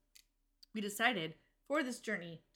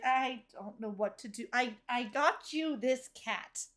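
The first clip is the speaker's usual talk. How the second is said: awkward Lacey, slow; slower than usual. Retold or imitated. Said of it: "Lacey would just be like".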